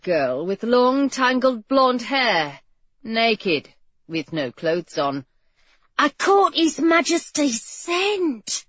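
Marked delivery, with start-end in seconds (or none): 6.0-8.7 exclaiming. Acted. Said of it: "she exclaimed".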